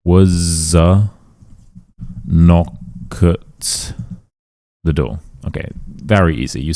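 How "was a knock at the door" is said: "Was a" "knock" "at" "the door" split by long pauses; word by word. Shown as a demonstration. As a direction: break it into separate words, pausing each time. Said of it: "This vowel takes the consonant".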